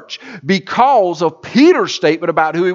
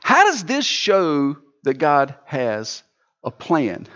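asking congregant; 3 semitones lower, slower than usual. Retold or imitated. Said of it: "you may ask".

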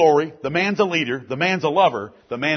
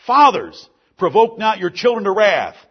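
louder, higher, forceful reading; preached verse; 4 semitones higher, 6 dB louder than usual. Shown as a demonstration. Pastor preaching the verse to fathers, louder and higher. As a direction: proclaim the verse to the men.

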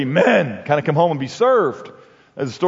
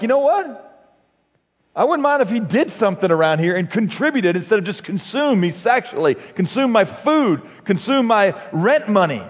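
fed-up wife; 4 semitones higher than usual. Retold or imitated. Fed-up wife's complaint.

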